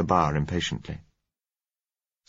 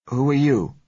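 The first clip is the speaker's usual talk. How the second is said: higher, louder uncertain question; 8 semitones higher, 5 dB louder than usual. A narrator's reading. Frightened doctor challenges a stranger in the corridor, uncertain. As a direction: ask it uncertainly, pitched up. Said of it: "he asked uncertainly".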